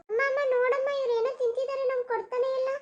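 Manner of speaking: put-on high child voice calling out to amma; tattling child. Child calling mother to complain, high and whiny. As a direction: whine for mother's attention, pitched high.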